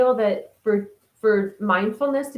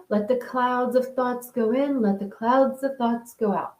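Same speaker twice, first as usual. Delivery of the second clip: meditation guide voice; 4 semitones higher than usual. Retold or imitated. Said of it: "in mindfulness teachings".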